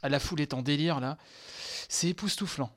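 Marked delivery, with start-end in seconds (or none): 1.9-2.7 higher-pitched, emphatic amazement; awestruck. Real, not acted. Fan with no other words for the trailer, awestruck. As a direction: marvel at it, lost for other words. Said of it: "J'ai pas d'autres mots".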